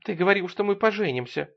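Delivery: high-pitched, acted sobbing reproach; tearful. A narrator's reading. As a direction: plead through pretend tears. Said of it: "рыдая, сказала она".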